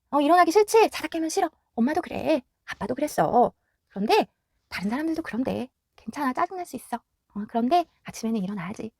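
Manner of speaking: put-on soft, tender reassurance to the child; calm the kid down softly; gentle soothing. Shown as a demonstration. Parent soothing a grumpy child.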